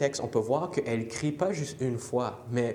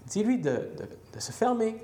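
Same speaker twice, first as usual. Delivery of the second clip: annoyed disciples; 9 semitones higher than usual. Acted. Annoyed disciples quoted to Jesus.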